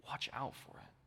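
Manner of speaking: softly whispered caution; whispered warning. Retold or imitated. Jesus's warning, quoted.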